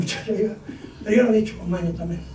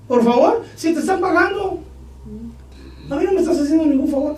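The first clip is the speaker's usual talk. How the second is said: mocking scoff; 6 semitones higher than usual. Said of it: "Así era yo".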